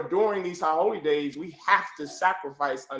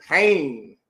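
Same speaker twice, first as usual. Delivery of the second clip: PAIN said louder on a falling tone; emphatic; 4 dB louder than usual. Shown as a demonstration. Preacher repeating the sister's answer to the class, emphatic PAIN. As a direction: lean hard on PAIN, let it fall. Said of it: "emphasize that word".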